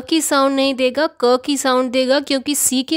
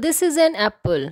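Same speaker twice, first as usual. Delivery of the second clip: slow example sentence; 3 semitones higher, much slower than usual. Shown as a demonstration. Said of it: "यह एक सेब है".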